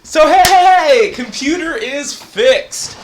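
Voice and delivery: loud, high radio-host holler; big stretched-out announcer shout; put-on radio voice. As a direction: blast it out like a hyped radio host. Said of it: "Why are you talking all weird".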